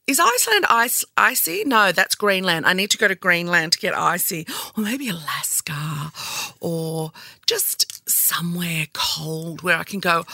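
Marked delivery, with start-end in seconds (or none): 4.8-10.3 whisper. Real, not acted. Wistful aside about cold places.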